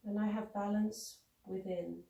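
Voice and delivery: calm, measured affirmations with long pauses; unhurried meditative mantra; recited affirmations. Acted. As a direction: recite each affirmation evenly, leaving space to repeat it mentally.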